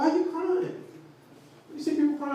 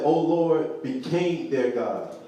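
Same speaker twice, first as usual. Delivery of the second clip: slow quoted verse; 5 semitones lower, much slower than usual. Retold or imitated. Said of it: "Look how he said".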